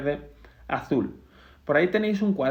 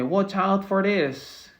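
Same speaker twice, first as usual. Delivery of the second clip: slow read-out; 5 semitones higher, much slower than usual. Shown as a demonstration. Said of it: "Cuidado con esto".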